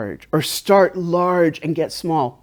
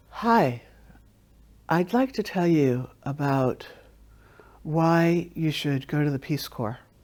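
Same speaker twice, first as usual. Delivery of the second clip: flat, low-energy monotone with no pitch range; 8 dB quieter than usual. Showing what having no range looks like, flat delivery with no range. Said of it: "let's start one to three. And I'm going to show you what it looks like not to have a range".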